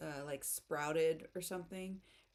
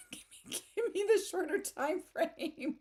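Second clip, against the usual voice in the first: demanding American; 11 semitones higher, 5 dB louder than usual. Retold or imitated. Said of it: "I'm like, "No, I'm American".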